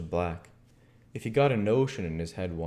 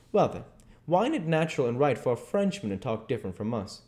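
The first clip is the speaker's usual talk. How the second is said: lightly voiced boy making his point; spring the clinching question; Huck, triumphant; 4 semitones higher than usual. Huck turns the cat argument on Jim, triumphant.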